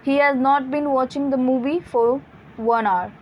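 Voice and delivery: each word read out very slowly; slow example read. Shown as a demonstration. Teacher to students, reading the example very slowly. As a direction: spell the sentence out slowly for the class. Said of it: "reading example sentence".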